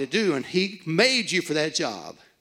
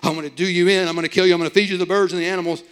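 louder booming Goliath threat, fast at the end; big booming voice; 3 semitones higher, 6 dB louder, much faster than usual. Retold or imitated. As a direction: boom it out like a giant bully. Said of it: "this big booming voice".

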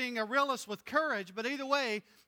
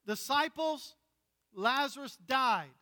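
plain-spoken Jesus; 5 semitones higher than usual. Retold or imitated. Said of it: "he speaks plainly".

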